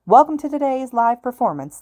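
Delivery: loud, high announcer shout. A narrator's reading. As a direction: boom it out to the hall. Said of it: "The shout".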